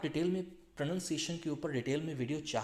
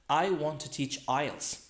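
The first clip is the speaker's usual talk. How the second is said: I want to teach ielts, landing on IELTS; stress on IELTS; 4 dB louder, much slower than usual. Shown as a demonstration. Teacher shows which information the examiner should hear, stress on IELTS. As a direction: make ielts the key word at the end of the sentence. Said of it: "लेकिन मैंने बोला ielts".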